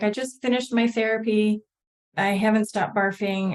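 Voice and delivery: frightened, upset, emotional delivery. Retelling what a dizzy caller said on the phone: imitating a scared, emotional caller. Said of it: "you could just hear the emotion in her voice and how scared she was".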